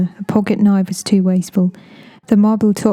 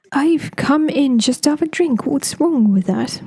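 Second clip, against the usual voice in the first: put-on higher, slow, whining voice of the pestering young man; whiny intruder; 6 semitones higher, slower than usual. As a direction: stretch it out, aggrieved and put-upon.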